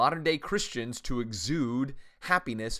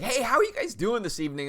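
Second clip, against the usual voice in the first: bright gym greeting; 11 semitones higher, 5 dB louder than usual. Retold or imitated. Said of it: "I'll be like".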